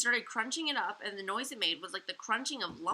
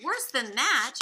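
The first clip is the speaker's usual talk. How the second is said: roaring laughter; 5 semitones higher, 9 dB louder, slower than usual. A narrator's reading. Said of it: "roaring with laughter".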